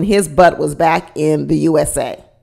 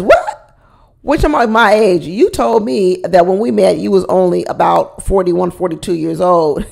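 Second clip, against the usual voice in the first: "What?" leaping way up in mock shock; shocked disbelief. Ingrid catching her boyfriend's age lie, mock outraged. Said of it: "And she says".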